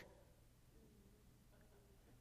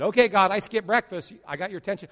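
mock smug; 3 semitones higher, 8 dB louder than usual. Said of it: "and you said".

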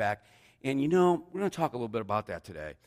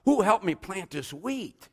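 high, loud, drawn-out appeal; singsong storybook question; storybook hen; 10 semitones higher, 6 dB louder, slower than usual. A narrator's reading. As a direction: slowly call out for helpers as the hen. Hen calls for helpers in story.

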